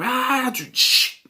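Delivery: high mock scream with a shushing crash; imitated scream. Reviewer describing the film's title opening, high imitated scream. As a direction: mimic a film's opening scream sound effect. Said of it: "you get this scream".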